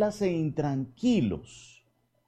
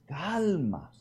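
reassuring softly; 3 semitones higher than usual. Retold or imitated. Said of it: "Padre José Andrés".

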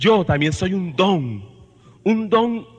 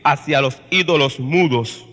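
scripture reading. Acted. Reads scripture passage aloud. (lectura solemne y pausada de la epístola)

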